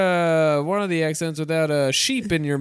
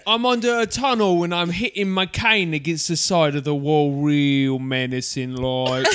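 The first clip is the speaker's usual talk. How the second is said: mock-menacing Cockney, slowing at the end; South End Cockney; 2 semitones lower than usual. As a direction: play a Cockney thug, dragging the last words. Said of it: "I'm a South End Cockney".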